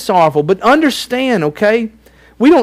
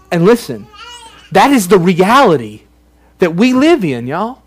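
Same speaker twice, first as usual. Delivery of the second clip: real tears breaking into the words; choked up. Real, not acted. Pastor to congregation about the real world, tearful. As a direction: speak through welling tears.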